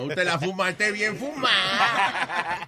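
very slow, laughing delivery; laughing drawl. Acted. Host teasing caller, slow laughing drawl. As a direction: stretch it out while laughing.

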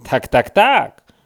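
loud, slow "tak, tak, tak"; eager agreement. Acted. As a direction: nod it out eagerly. Dzięcioł entuzjastycznie potakuje. (dzięcioł głośno i powoli potakuje)

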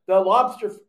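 high sarcastic parody of an excuse; mock pretending. Mocking the officials' lobster excuse, in a high sarcastic voice. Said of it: "they wanna pretend like".

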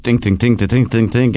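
low, muttered rapid repetition; trying to think. Retold or imitated. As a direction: drop the pitch and churn through the words. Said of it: "And I'm like".

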